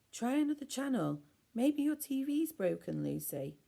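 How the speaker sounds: high, loud bossy demand; bossy Ella. A narrator's reading. Bossy Ella ordering Lucy to change the channel. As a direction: boss everyone around.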